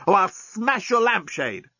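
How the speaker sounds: high, slow strained menace; choked threat. Acted. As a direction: keep squeezing the threat out. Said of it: "choked the journalist".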